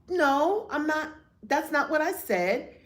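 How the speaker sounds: high, sharp protest; indignant denial. Retold or imitated. Wife refusing husband's blame over garbage, indignant and high. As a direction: push back hard on the blame.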